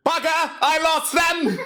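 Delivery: high, laughing frustrated Dalek; annoyed Dalek voice. Retold or imitated. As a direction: grumble like a Dalek. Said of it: "Rolled back".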